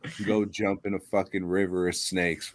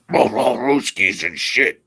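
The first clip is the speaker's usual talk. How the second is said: mock Russian accent; 7 dB louder, slower than usual. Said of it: "an ugly fucking language with an ugly, ugly accent".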